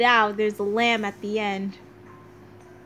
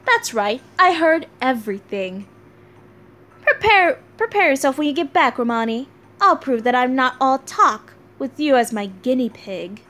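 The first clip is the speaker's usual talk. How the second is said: a hint of a boastful inventor; Da Vinci, playfully smug; 3 dB louder than usual. Voicing Da Vinci's game lines.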